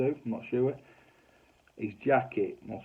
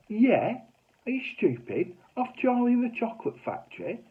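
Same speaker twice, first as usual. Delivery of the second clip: mock wife; 5 dB louder than usual. Wife snaps back, voiced high.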